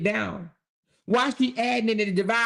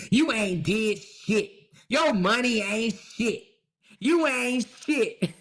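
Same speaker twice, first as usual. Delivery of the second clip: slow taunting put-down; slower than usual. Real, not acted. Telling off the hater.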